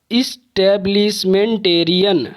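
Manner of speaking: इस्टेब्लिशमेंटेरियन slowly, in distinct syllables; measured syllables. Shown as a demonstration. Teacher introducing a seven-syllable example, इस्टेब्लिशमेंटेरियन slow and distinct. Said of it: "सात syllable वाले".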